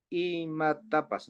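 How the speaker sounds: "Y matapas" with the Y drawn out alone; syllable split. Shown as a demonstration. Teacher shows the vowel standing alone, syllable split. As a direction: hold Y as its own syllable, then "matapas". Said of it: "si la vea, queda solo la vocal".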